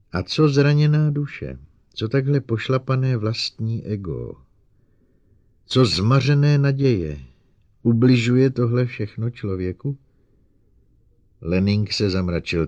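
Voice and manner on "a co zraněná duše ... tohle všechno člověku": passionate challenge. Acted. Calvin challenges men passionately.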